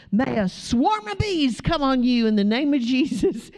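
high, dramatic retold pronouncement; mock proclamation. Housekeeper calling bees on hecklers, mock proclamation. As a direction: call it down like a sudden decree.

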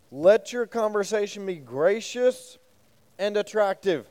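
reading scripture aloud. Shown as a demonstration. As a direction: read the verse out deliberately to the group. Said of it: "the E S V actually says".

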